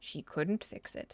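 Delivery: whispered, hushed storybook narrator voice. Trying to fix a drawing that went wrong, joking: narrator voice. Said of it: "narrator voice".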